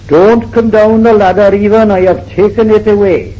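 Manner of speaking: calling up high and loud to a man on the roof; retold shout. Painter shouting up to Even on the parapet, loud call. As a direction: yell it up the ladder, half-comic. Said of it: "he was shouting up to our Even".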